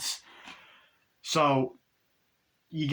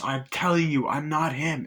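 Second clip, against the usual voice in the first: raised, higher protest; acted insistence; 4 semitones higher than usual. Tied-up guy pleading innocence, acted insistent protest. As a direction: insist as if wrongly accused.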